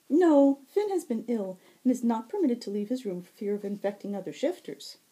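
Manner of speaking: high, ringing, lilting fae voice; bright high herald. Acted. Fae herald greeting the wounded Zack, high and bright. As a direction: sing it out high and sweet.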